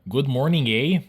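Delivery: high, loud mock-Canadian question. Shown as a demonstration. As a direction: ask it as a caricature Canadian. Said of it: "Compared to the Canadian language version".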